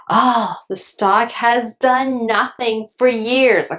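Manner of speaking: slow, dragged-out whine; mock a bored, impatient investor; whiny complaint. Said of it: "the second most common reason for selling is".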